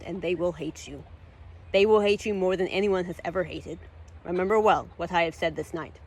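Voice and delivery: ominous curse. Acted. Dathar lays a curse.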